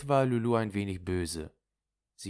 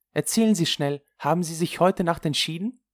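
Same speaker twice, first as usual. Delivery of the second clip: eager questioning; 10 semitones higher, 6 dB louder than usual. Acted. Friend urges her to tell.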